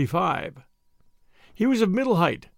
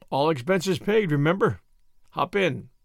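ordinary delivery

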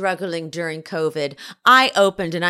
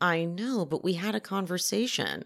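very soft, hushed, barely-there half-whisper; 9 dB quieter than usual. Retelling a reality show reunion scene: imitating a half-whisper. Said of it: "Monica's still whispering".

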